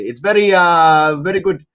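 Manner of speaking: high put-on foreign accent; light, high accented salesman voice; accented prank caller. Trying out lines for a prank call, accented pitch.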